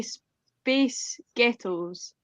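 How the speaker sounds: slow Scottish demo of "space ghettos"; Scottish accent. Shown as a demonstration. Scot showing friends an accent joke, Scottish accent. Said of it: "if in the Scottish accent".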